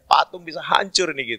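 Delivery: a touch of anxious pleading; pleading priest. Retold or imitated. Priest fearing for the statue, lightly acted plea. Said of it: "pastor bantu doa loh".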